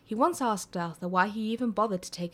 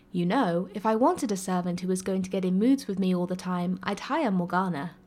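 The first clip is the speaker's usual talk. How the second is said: arguing, a bit louder; 4 dB louder than usual. Acted. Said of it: "Arthur argued".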